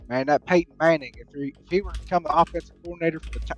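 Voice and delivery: East Tennessee twang with questioning lilt; East Tennessee accent. Shown as a demonstration. Demonstrating regional accents as a football fan, East Tennessee questioning twang. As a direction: make every phrase sound like a question, East Tennessee style. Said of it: "everything sounds like you're asking a question".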